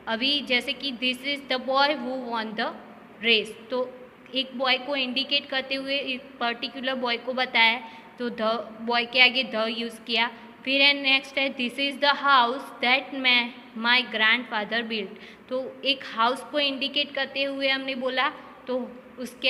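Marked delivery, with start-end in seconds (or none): 0.9-3.7 slow reading. Shown as a demonstration. Reads example sentence slowly. 11.5-15.2 slow reading. Shown as a demonstration. Reads example sentence slowly.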